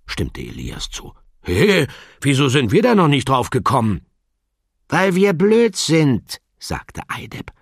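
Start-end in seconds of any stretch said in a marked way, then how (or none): 1.4-4.0 puzzled bookling. Acted. 4.9-6.4 dry bookling. Acted. Bookling self-mocking quip.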